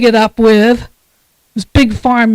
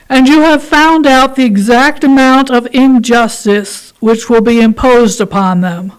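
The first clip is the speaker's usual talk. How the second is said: a raised, weighty voice for a congregation reading; formal reading. Acted. Minister reading to the congregation, formal and raised. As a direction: read it out like a solemn declaration. Reads the responsive reading aloud.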